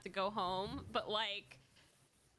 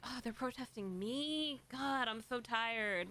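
slow, tired, put-upon sigh voice; lightly voiced jaded older woman; weary old liberal woman; slower than usual. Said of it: "old liberal woman who's kinda like".

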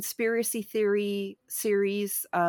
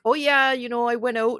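lightly imitated Canadian accent, a bit louder; 3 semitones higher, 4 dB louder than usual. Podcaster imitating an interviewed author, light Canadian accent. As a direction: affectionately mimic a Black Canadian accent. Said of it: "Her Canadian accent comes through".

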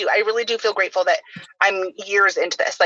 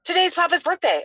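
put-on much higher kid voice, sudden realization; imitating her son; 10 semitones higher than usual. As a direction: pitch way up like a nine-year-old remembering. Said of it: "he's like".

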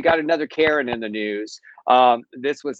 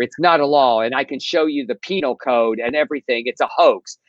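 whining Karen; 2 semitones higher than usual. Retold or imitated. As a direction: imitate an entitled customer whining and rising. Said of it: "She whines further".

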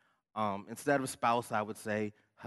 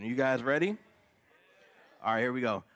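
rally the crowd, louder; louder hype call; 5 dB louder, faster than usual. Real, not acted. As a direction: pump up the room. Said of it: "I never get big cheers".

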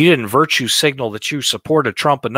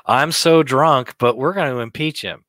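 put-on drunk slurring; 4 semitones higher than usual. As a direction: slur it like you're drunk. Mocking Pelosi on camera.

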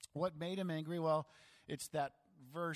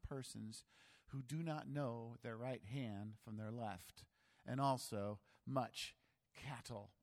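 measured Bible reading voice; formal reading of Jonah; scripture reading. Acted. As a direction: read the passage aloud to the church.

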